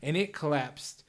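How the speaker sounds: put-on light Chicago accent in character; villain with a mild Chicago accent. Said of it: "gotta take some time to come out of character".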